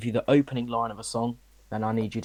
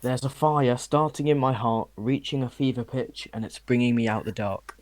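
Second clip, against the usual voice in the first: weird lyric reading. Shown as a demonstration. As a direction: recite it almost singing. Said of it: "You said that really weirdly".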